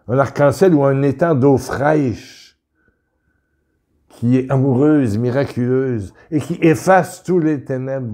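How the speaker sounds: reads his own prayer text with rising fervour; inspired reading. Acted. Preacher reading his prayer to viewers, with fervour. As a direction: lift the listener with each image.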